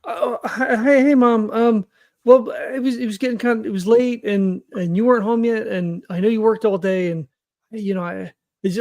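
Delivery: a son caught cooking, stammering excuses to mom; a lightly voiced son explaining himself too fast; nervous son. Player voices nervous son Huxley.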